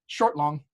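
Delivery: short, long, with the weight on long; short then long. Shown as a demonstration. Teacher showing an iamb, short then long. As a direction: say it as one light beat and one heavy beat. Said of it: "a short and a long in that order".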